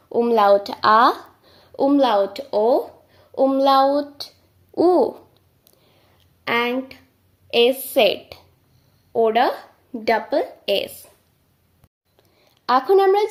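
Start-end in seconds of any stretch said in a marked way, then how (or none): 0.1-10.9 each umlaut said clearly and firmly; German umlaut drill. Shown as a demonstration. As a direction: drill the umlaut sounds aloud. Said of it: "চলুন আরেকবার দ্রুত practice করা যাক". (উমলাউট স্পষ্ট উচ্চারণ)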